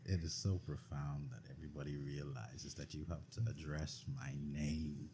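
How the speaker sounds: light mock Cockney, pompous; a hint of a haughty Cockney lord; Cockney accent. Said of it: "in a Cockney accent".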